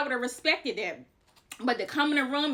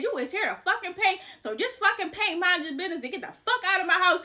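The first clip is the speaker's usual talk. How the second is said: high-pitched, cussing-out retelling; angry telling-off; 7 semitones higher than usual. Retold or imitated. Mom cussing out the painter before slamming the door, angry. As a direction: imitate a furious woman ordering someone around.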